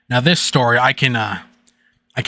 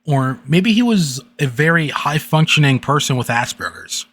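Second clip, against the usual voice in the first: serious voice. A narrator's reading. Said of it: "read another story in a serious voice".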